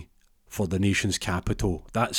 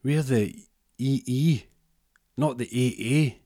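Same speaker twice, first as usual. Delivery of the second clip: elf voice; 5 semitones higher than usual. Retold or imitated. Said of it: "And goes".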